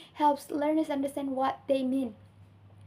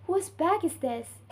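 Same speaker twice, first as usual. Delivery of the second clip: high on "bag", falling to "this"; falling intonation; 4 semitones higher than usual. Shown as a demonstration. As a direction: question that drops on "this". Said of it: "pitch of voice drops at the end".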